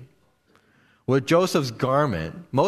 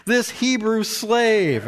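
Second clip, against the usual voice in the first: high, raised voice of an outraged accuser; mock screaming; 7 semitones higher than usual. Preacher acting out Potiphar's wife yelling to her household, outraged. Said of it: "she's basically yelling and screaming".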